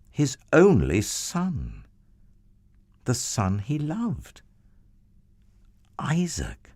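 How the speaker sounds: breathy whispered name, held back. A narrator's reading. Narrator reveals the son's name to listening children, whispered. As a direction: let the name barely escape. Narrator names the beloved son.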